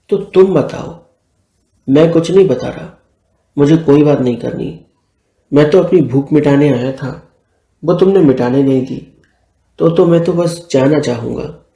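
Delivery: understated lovers' sulk, acted in narration; mild huffy refusal; a touch of hurt anger; mildly angry. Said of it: "इतना भी गुस्सा नहीं करो".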